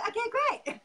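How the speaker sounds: high laughing okay great; giggling through the words. Real, not acted. Laughing while voicing man.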